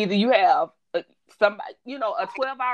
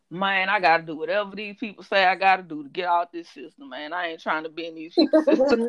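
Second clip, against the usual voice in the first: lightly imitated client pleading his case; a hint of a client's lazy grumble; client impersonation; 3 semitones lower, 3 dB louder than usual. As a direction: mimic a man protesting, lightly. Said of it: "the way he was talking".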